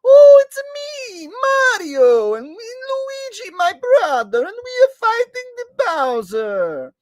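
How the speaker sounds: very high, slow, shouted cartoon voices; over-the-top high plumber brothers; Mario and Luigi impression. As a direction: squeak out a heroic brothers' intro. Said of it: "Can you do Mario and Luigi impression".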